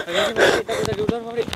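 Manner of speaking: breathless, loud hushed urging; urgent loud whisper. Real, not acted. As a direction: hurry them out in a forced whisper. Urging to get outside fast.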